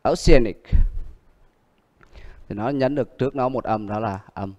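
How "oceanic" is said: Oceanic with the stress on the A; Oce-A-nic, falling after the stressed A. Shown as a demonstration. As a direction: model Oceanic, leaning on A. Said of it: "Đó, A".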